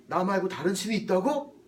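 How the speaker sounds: loud, incredulous challenge; indignant God. Acted. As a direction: demand it as an affronted God, voice rising at the end. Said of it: "이렇게 하는 거예요". (어이없다는 듯 크게 따지며)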